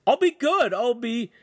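high, loud desperate promise; shouting. A narrator's reading. Lincoln begging the master to let go, shouting. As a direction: cry out a hurried plea. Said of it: "Lincoln shouted".

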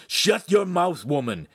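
high, loud burst of rage; enraged order; furious command. A narrator's reading. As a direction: silence someone angrily. Enraged man silences and slaps her.

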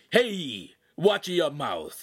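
sharp scolding from the boss; shouted warning. A narrator's reading. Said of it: "the master shouted".

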